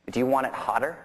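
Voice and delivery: lightly imitated Cockney accent; thick Cockney accent. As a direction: quote him with a touch of Cockney. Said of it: "in this real thick Cockney accent".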